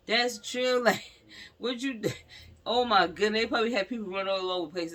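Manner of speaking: alarmed exclamation. Real, not acted. Alarmed at busy location.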